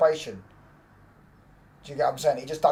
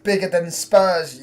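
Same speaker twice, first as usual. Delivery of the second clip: loud, high, drawn-out taunt; gloating shout; 6 semitones higher, 10 dB louder, much slower than usual. Real, not acted. Fan taunting rivals after a goal, gloating shout. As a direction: crow it slowly at full volume.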